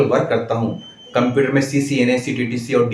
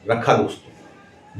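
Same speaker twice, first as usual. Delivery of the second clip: slow with pauses; slower than usual. Shown as a demonstration. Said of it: "जैसा कि मैं अभी इस समय बोल रहा हूँ".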